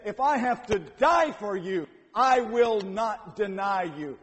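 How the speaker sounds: vehement. Retold or imitated.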